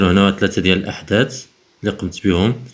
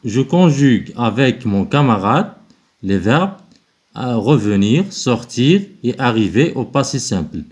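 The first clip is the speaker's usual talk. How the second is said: higher, slow dictation-style reading; slow instruction read; 3 semitones higher, much slower than usual. Acted. Teacher reading the exercise instruction to pupils, slow and clear. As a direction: read the task aloud slowly for the class.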